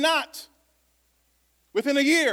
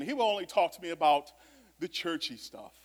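mock narrow voice. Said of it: "I don't know why I'm talking like this".

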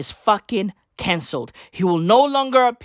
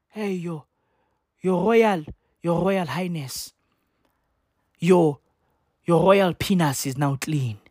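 slow imitation African accent; mock African accent; slower than usual. Imitating the actress's fake accent, mock African accent. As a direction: put on an African accent, measured and halting. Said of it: "trying to sound like".

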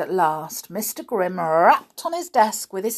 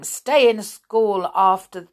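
loud, slow punishing order; teacher ordering lines; stern order; 2 semitones higher, 7 dB louder, slower than usual. Acted. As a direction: drive the punishment home. Grimm sets punishment.

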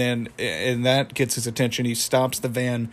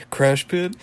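raised questioning tune, attempting a high cartoon voice; High Five Ghost; 5 semitones higher, 3 dB louder than usual. Fan retrying the ghost's too-high voice, raised pitch. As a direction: lift it high, rising on "Pit". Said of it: "It's too high".

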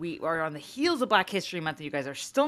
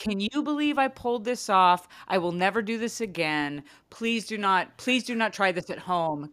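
amazed and humble; 2 semitones higher than usual. Shown as a demonstration. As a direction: sound surprised at your own luck, warning others off. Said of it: "Your tone should be".

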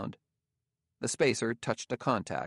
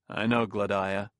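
cold. A narrator's reading. Bailey answering Gramianus about Gladia, mildly cold. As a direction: answer with a touch of coldness. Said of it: "said Bailey coldly".

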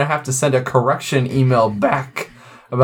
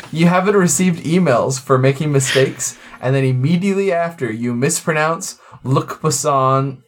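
careful reread. Acted. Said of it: "if I don't say this right".

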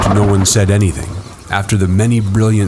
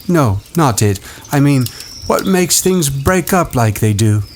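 put-on higher boyish voice; 8 semitones higher than usual. A narrator's reading. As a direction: voice a young boy. Boy character voice.

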